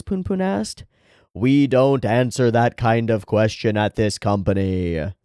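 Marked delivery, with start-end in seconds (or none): 1.3-5.1 stonewall him like a bored clerk god; a touch of the God voice. Acted. God refusing Poon Poon's question, slow deadpan. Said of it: "this voice for God".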